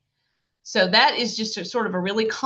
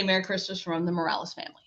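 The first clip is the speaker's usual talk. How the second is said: model phrasing; 2 semitones lower, 6 dB quieter, much faster than usual. Shown as a demonstration. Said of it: "I say".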